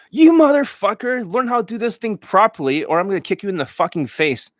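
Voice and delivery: high mock tirade; Johnny Elite impression. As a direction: berate a student in a hammed-up rant. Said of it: "one more impression, Of Johnny Elite".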